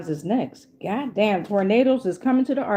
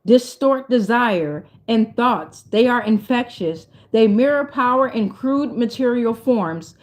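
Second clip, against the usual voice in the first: measured, deliberate reading aloud; solemn card reading; slower than usual. Real, not acted. Reading an oracle message to viewers, measured and emphatic. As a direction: intone each phrase as a separate item.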